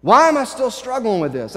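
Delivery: frustrated questions, preached with rising insistence; Paul. Retold or imitated. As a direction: wrestle aloud with your own failing. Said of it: "I can see Paul getting so frustrated".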